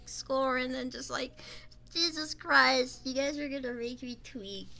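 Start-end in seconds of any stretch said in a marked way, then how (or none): 1.9-3.0 drawn-out exasperated groan; slow, fed-up exclamation. Real, not acted. Exasperated outburst.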